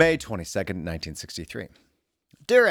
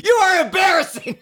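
hammed-up shout, much higher and louder; mock yell; 11 dB louder than usual. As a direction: bellow it so the whole abbey echoes. Imagining a yell in the abbey.

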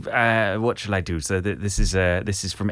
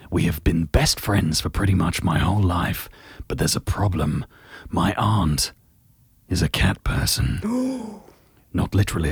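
Gerald voice. Acted. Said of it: "just do Gerald again".

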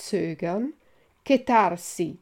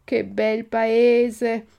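slow, loud cries of wonder, climbing higher; building elation; 5 semitones higher, 6 dB louder, slower than usual. A narrator's reading. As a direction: exclaim it three times, each more rapturous, stretching the words. Pinocchio's climactic repeated exclamation. (entusiasmo estasiato in crescendo, scandito)

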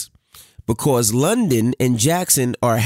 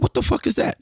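hushed; faster than usual. Retold or imitated. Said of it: "I said".

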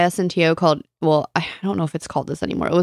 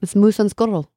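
Boris Badenov voice; 2 semitones higher than usual. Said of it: "Rocky and Bullwinkle".

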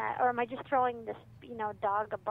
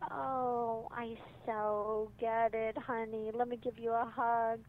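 slow, soothing parent voice; mock empathizing; slower than usual. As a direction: parent soothing an upset kid, gently and slowly. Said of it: "You empathize".

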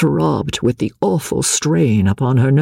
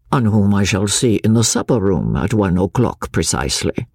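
lower, calm and deliberate; Chauvelin's cool echo; 4 semitones lower than usual. Acted. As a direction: throw her words back, coolly. Chauvelin echoing her words.

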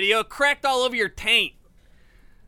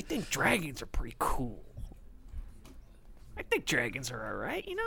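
whisper; 12 semitones lower, 13 dB quieter than usual. Acted. Cop backs down, softens.

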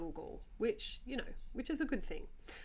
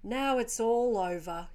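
eerily calm; 5 dB louder, slower than usual. Retold or imitated. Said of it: "in an eerily calm voice".

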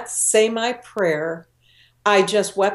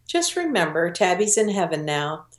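consoling mother; 3 dB quieter than usual. Retold or imitated. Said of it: "her mother was trying to console her".

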